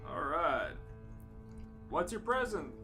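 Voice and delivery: ordinary delivery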